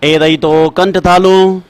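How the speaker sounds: slow chanted sutra, last words drawn out; sutra recitation. Shown as a demonstration. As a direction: chant the rule slowly for dictation. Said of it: "नवा सूत्र लिखें".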